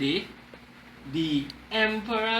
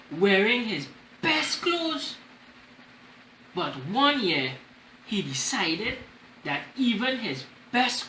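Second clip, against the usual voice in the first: story reading. Acted. Reads storybook to class.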